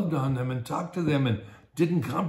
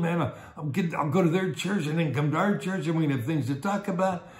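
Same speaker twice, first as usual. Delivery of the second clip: mildly thrilled, acted; lightly played eager enthusiasm; excited and thrilled; 2 semitones higher, faster than usual. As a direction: rattle on with a touch of excitement. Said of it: "beginning to be all excited and thrilled".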